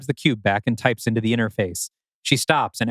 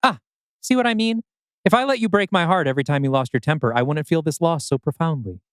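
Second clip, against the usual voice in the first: lightly voiced higher older man; higher Arthur voice; 5 semitones higher than usual. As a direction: speak up high, dry and detached. Arthur's quoted lines.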